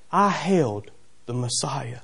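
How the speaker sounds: understated reverent wonder; slow, hushed awe. Retold or imitated. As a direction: let it sink in slowly. Simeon's testimony, slow.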